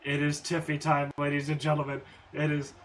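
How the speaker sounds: announcer voice. Real, not acted. Hyping winner like ring announcer.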